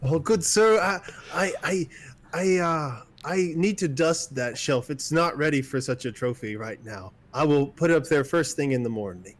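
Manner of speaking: a lightly voiced flustered barmaid stalling.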